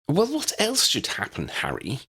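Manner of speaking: pointed, challenging question; demanding. A narrator's reading. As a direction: demand an answer from Harry. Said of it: "Hermione demanded".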